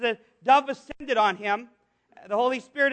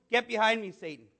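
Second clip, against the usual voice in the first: low, softer rebuke; tough rebuke; 3 semitones lower, 5 dB quieter than usual. Acted. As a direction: let it sink low and quiet. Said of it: "that's gotta be really tough".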